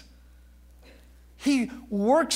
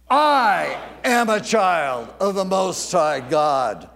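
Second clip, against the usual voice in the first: "I" hit hard and held, then slower; slow declaration with a big, drawn-out "I"; stress on I; 3 semitones lower, 4 dB louder than usual. Shown as a demonstration. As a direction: lean heavily on the word "I". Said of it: "Now emphasize the word "I".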